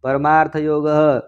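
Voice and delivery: slow, measured reading of scripture; Sanskrit text recitation. Acted. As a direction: draw out the Sanskrit phrase endings. Reads Sanskrit commentary aloud.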